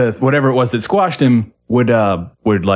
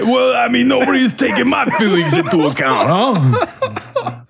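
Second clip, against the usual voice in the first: New York voice; 11 semitones higher than usual. Pretend. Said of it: "real deep New York voice".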